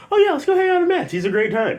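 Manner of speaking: very high, loud, fast imitation; over-the-top imitated enthusiasm, breaking into laughter; sudden eagerness. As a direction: gush in a squeaky mock-girlfriend voice.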